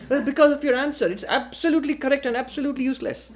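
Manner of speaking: fast, laughing through the punchline. Retold or imitated. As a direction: let the laugh break into the answer. Joke punchline, balloonist answers.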